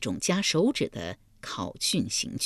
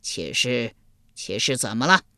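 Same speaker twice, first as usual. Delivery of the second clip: eager King Yama; 4 semitones lower than usual. Acted. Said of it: "阎罗天子忙接口道".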